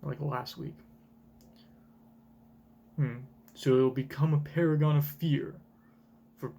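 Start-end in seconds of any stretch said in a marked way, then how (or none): 3.5-6.5 noble heroic hero voice. Acted. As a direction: read it like a steadfast hero. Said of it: "that's too heroic. That's too Kuma".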